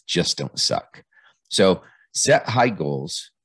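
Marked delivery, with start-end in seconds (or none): 0.1-1.1 slow, deliberate mantra; quoted mantra. Retold or imitated. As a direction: lay the mantra out slowly, word by word. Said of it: "her mantra is".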